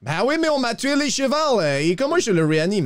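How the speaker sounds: high-pitched, exasperated outcry; agitated protest. Acted. Rider whose chevals were killed asks how to revive, agitated.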